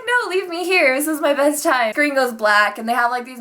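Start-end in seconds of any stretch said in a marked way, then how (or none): 0.1-1.9 higher-pitched mock Jamaican accent; light imitation of a Jamaican accent; imitated Jamaican accent. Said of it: "when he had his Jamaican accent".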